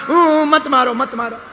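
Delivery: imitated soft whimper of pleading; mock crying. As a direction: wail a little, pretending to beg for mercy. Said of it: "रोने लगा". (रोने की नकल करते हुए गिड़गिड़ाना)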